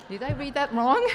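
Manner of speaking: laughing while asking. Real, not acted. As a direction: say it through laughter. Laughing at ad mistake.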